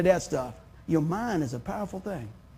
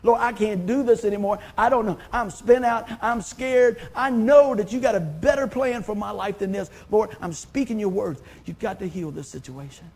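crying out to God; 4 dB louder than usual. Retold or imitated. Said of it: "And I scream out".

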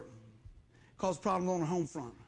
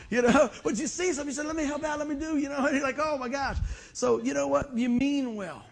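laughing through it; 8 semitones higher, 7 dB louder than usual. Real, not acted. Laughing at his own blunder.

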